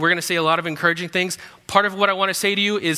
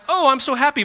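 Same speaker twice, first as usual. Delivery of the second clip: mock delight; 9 semitones higher, 5 dB louder than usual. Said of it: "Not like".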